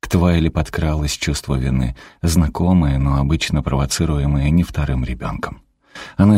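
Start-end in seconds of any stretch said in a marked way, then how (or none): none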